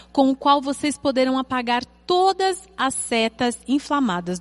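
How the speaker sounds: measured, emphatic Bible reading with stretched key words; solemn read-aloud with weighty pauses; scripture reading. Acted. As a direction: read the verses out deliberately to a congregation. Reads Bible passage aloud.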